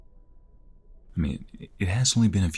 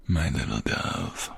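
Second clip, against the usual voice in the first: tender pet name; 3 semitones lower, slower than usual. Acted.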